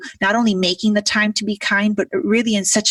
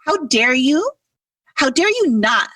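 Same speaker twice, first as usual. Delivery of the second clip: mild mock scolding, higher; hammed-up telling-off; mock yell; 7 semitones higher than usual. Imitating mentor lightly scolding her at the table. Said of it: "I yelled".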